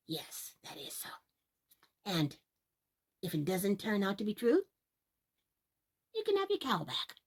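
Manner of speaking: whispered, then softly rising; whispered promise. Acted. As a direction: hush it, then reassure. Old man promising in secret.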